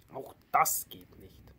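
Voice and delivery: slow, heavy letdown; disappointed. Acted. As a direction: let the hope drain out slowly. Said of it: "sagte er enttäuscht".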